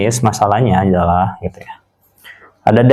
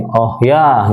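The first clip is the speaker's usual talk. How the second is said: "oh ya" climbing from low to high; "oh ya" with an upward, interested tune; rising intonation. Shown as a demonstration. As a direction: let "oh ya" lift at the end. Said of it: "From low to high".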